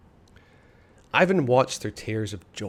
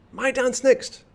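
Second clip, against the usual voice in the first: high, louder eager cry; 14 semitones higher, 5 dB louder, slower than usual. A narrator's reading. Ivan begging for his turn at the dance, eager high cry. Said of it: "cried Ivan".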